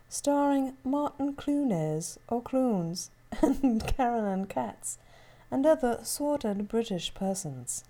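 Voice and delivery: lightly put-on British announcer; slow, slightly British-tinged delivery; British accent. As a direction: read the intro with a touch of fake British. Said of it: "you're doing a British accent".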